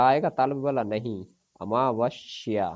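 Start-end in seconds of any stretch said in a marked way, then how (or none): 1.6-2.7 अमावस्या stretched slowly, half स clear; slow careful word. Shown as a demonstration. Teacher to students, slow careful अमावस्या. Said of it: "दंतव्य वाला आधा सा आएगा".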